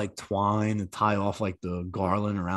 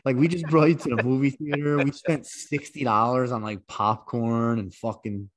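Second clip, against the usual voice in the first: exasperated dad rant, pitched up; mock exasperated rant; 3 semitones higher, 3 dB louder than usual. Ranting at ungrateful son.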